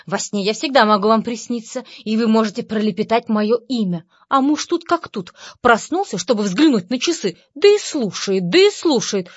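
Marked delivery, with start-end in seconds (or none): none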